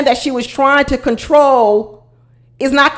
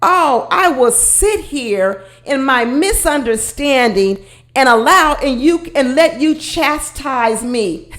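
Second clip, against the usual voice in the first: mock sulky woman; slower than usual. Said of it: "She sat there and said".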